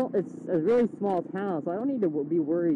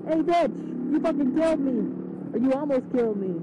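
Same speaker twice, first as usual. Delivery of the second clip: mock shrieking driver; 10 semitones higher than usual. Imagining yelling at the driver, high mock shriek. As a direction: squeal it like a cartoon rage. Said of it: "been like".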